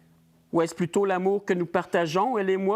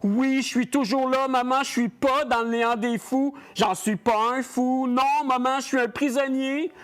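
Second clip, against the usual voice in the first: anguished pleading; 4 semitones higher than usual. Acted. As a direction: implore her to pull him out. Begging mother to free him. (supplication angoissée, plus aiguë)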